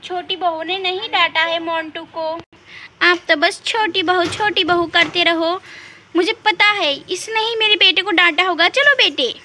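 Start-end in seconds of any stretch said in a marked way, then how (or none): 3.0-9.4 jealous daughter-in-law lashing out; angry. Acted. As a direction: complain bitterly and storm off. Angry sister-in-law storms off.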